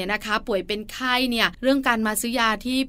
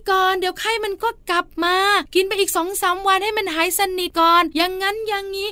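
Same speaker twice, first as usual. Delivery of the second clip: higher, nagging elder voice; insistent grandparent; 9 semitones higher, 4 dB louder than usual. Retold or imitated. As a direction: play the grandma pushing more medicine, pitched up high. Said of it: "ผู้สูงอายุในบ้านเอาอีกแล้ว". (เลียนเสียงผู้สูงอายุที่คะยั้นคะยอ เสียงสูง)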